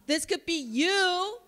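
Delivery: high, slow, sing-song come-on; cutesy sales pitch. Pretend. Counselor pitching her school with a baby lamb, cutesy. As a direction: coax them up high like showing a baby lamb.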